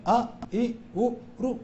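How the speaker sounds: आ, ई, उ, रु said softly with little effort; easy, unforced short vowels; light short vowels. Shown as a demonstration. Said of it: "ज्यादा शक्ति की जरूरत नहीं है".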